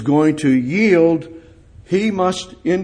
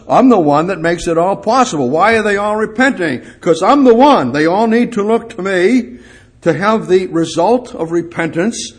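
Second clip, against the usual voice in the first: voicing Jesus, louder; 4 semitones higher, 4 dB louder than usual. Preacher voicing Jesus to John.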